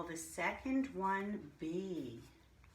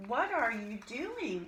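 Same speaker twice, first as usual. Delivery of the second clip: mother's question; 3 semitones higher, 5 dB louder than usual. Acted. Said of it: "asks my mother".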